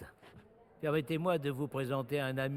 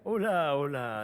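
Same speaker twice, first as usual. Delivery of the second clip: alarmed; 5 semitones higher, 4 dB louder than usual. Acted. Calming a heated quarrel.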